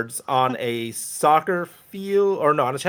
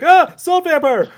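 mock scream; 13 semitones higher, 7 dB louder, slower than usual. Commander screams off screen.

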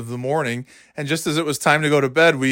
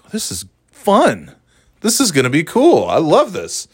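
higher, swooping delight on stretched key words; mock excitement; 4 semitones higher than usual. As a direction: play the delighted kid, pitch jumping up. Retells his first delight at job.

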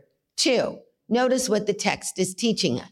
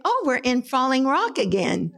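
laughing while quoting grandma. Retold or imitated. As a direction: chuckle through the quote. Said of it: "and she said".

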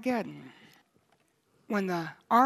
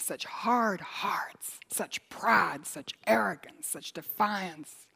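whisper; much slower than usual. Acted. Lamenting sinners' hardness.

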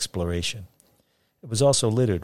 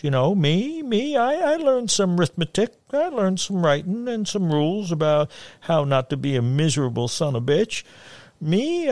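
high, proud folksy orator; sing-song voice; 8 semitones higher, 3 dB louder than usual. A narrator's reading. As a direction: declaim it to the mountain. Fagin's speech, high.

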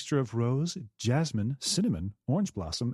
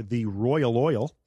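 slow careful tongue twister; much slower than usual. Shown as a demonstration. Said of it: "here's a tongue twister for you".

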